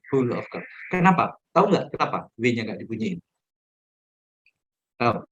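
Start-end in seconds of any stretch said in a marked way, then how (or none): 0.1-0.7 whole said as hul again; whole with the W dropped; corrected pronunciation. Shown as a demonstration. Teacher repeats the right form: silent W in whole. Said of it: "bukan whole".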